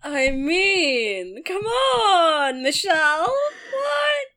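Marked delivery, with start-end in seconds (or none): 1.4-4.3 laughing disbelief. Real, not acted. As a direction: plead with her through laughter. Mock-pleading disbelief at the poem.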